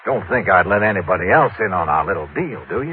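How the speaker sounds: put-on Texan phone voice; Texas drawl. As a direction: act the rich Texan, folksy drawl. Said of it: "using my best Texas drawl".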